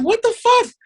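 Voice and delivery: high-pitched, startled outburst; mock-alarmed squawk; retold shock. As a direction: replay your disbelief, voice leaping way up. Retold shock at being recorded.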